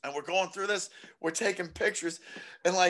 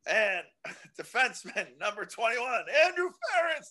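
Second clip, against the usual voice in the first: announcer calling names; 4 semitones higher than usual. Retold or imitated. Announcer calls player names.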